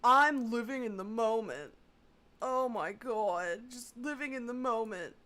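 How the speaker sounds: exaggerated mocking imitation. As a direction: mimic her with disdain. Mocking the caller's phrase.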